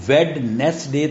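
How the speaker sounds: ویڈنسڈے with the D pronounced before N; WEDNESDAY with D sounded. Shown as a demonstration. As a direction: say ویڈنسڈے as spelt, "wed-nes-day". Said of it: "تو نہیں پڑھا نا".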